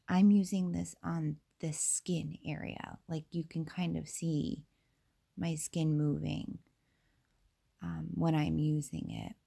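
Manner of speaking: slightly raspy, under the weather. Real, not acted. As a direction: speak with a bit of rasp from a cold. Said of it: "I have a little bit of a raspy voice".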